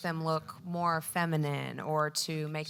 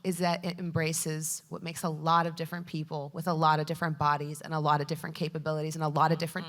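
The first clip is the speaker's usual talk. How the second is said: shaky nervous falsetto; faster than usual. Real, not acted. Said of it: "sorry, my voice is cracking".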